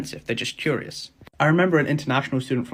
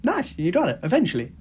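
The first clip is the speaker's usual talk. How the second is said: imitating the taxi driver; 4 semitones higher than usual. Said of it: "He was just like".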